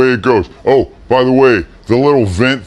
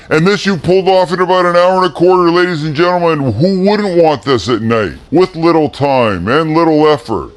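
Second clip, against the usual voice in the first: excited pitch; 7 semitones higher than usual. Acted. Showman pitch to the audience.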